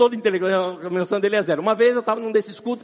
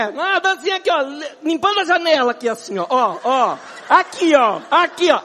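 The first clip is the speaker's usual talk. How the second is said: high, loud, playful demo chant; demonstrating the dance; 6 semitones higher, 5 dB louder than usual. Shown as a demonstration. Pastor demonstrating the silly dance to the church, loud and playful. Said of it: "como é que é?".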